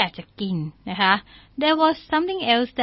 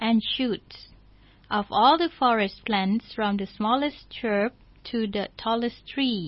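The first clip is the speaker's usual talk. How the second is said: slow story reading; much slower than usual. Shown as a demonstration. English story read slowly.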